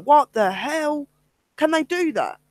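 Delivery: high-pitched, incredulous team reaction; imitated disbelief. Investigator retells the team's shock at the walkie-talkie, incredulous. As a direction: act out their startled questioning.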